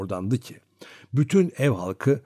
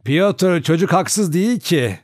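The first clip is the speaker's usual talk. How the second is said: higher, louder firm grandmother; firm, decisive; 6 semitones higher, 5 dB louder, slower than usual. A narrator's reading. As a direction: settle it with authority. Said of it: "kesin bir tavırla".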